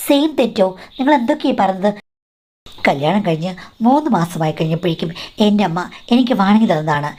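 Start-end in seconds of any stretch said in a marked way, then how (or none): 0.1-1.9 an incredulous, pitched-up challenge; shocked retort. Retold or imitated. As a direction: fire back in disbelief. Shocked wife questions mother-in-law.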